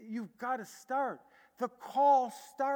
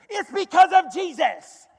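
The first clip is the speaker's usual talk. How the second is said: much higher and louder playful jab; teasing; 8 semitones higher, 16 dB louder than usual. Retold or imitated. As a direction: tease him back cheekily. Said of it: "I teased him back".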